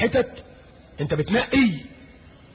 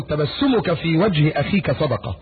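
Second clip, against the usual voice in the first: slow solemn recitation; slower than usual. Real, not acted. Reciting hadith slowly.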